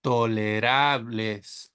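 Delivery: tolerables drawn out, Spanish vowels; slow plural model. Shown as a demonstration. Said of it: "make sure we have plural".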